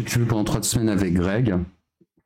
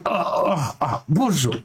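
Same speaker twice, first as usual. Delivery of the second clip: talking to the cat; 5 semitones higher than usual. Real, not acted. Greeting the cat climbing up.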